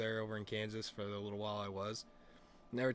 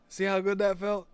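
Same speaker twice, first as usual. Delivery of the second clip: loud, raised voice of goading friend; mock triumph; 8 semitones higher, 9 dB louder than usual. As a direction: crow it as the buddy. Friend's triumphant reply, retold.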